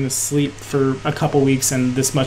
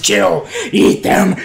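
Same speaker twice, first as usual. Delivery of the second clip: slow, harsh goblin roar; raging hobgoblin; 5 semitones higher, 5 dB louder, slower than usual. Acted. Hobgoblin slamming his weapon into the ground, raging. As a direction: roar each command savagely.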